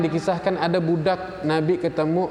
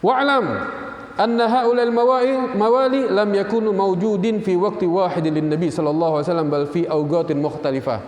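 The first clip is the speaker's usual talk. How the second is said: lifted, chanting reading of the Arabic text; Arabic kitab recitation; 3 semitones higher than usual. Acted. Reads Arabic kitab text aloud. (bacaan kitab berbahasa Arab yang dilantunkan)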